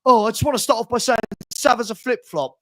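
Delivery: a put-on, sneering fan voice; mocking fan impression. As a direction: mimic him with contempt. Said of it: "I saw you".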